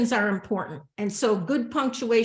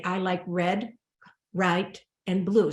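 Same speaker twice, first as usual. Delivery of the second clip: I like red, white, and blue with a short pause after red and after white; pauses in the list; 2 semitones lower than usual. Shown as a demonstration. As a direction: let each comma be a pause. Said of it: "So you hear the pause".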